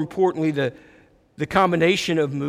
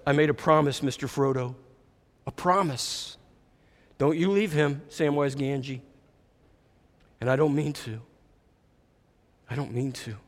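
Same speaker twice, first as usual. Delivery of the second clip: low, soft, with long pauses; hushed vow; 5 semitones lower, 6 dB quieter than usual. A narrator's reading. Soaked Sam answering Frodo about his promise, hushed. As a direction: say it quietly and let each phrase settle. Same reply quoted again, softly.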